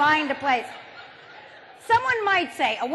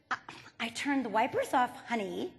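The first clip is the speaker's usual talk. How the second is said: in a tone; 3 semitones lower, 8 dB quieter than usual. Retold or imitated. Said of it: "in a tone".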